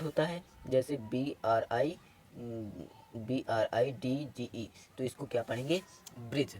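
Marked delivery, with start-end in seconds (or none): 6.2-6.5 ब्रिज with no separate D before the J; silent D. Shown as a demonstration. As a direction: say ब्रिज, going straight into the final J. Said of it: "इधर हमारा डी silent हो गया है".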